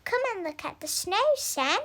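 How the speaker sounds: eager mother calling her son to the window. Acted. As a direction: hurry him outside with a fast call. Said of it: "called Mum".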